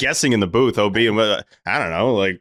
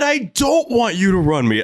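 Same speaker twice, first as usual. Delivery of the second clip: high mock protest, acted out; Cora quote; 9 semitones higher than usual. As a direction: tell the ump off in a higher voice. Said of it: "I said".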